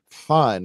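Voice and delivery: "fun" set apart and held a little; stress on fun. Real, not acted. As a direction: lean on the word "fun". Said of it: "I emphasize the word fun".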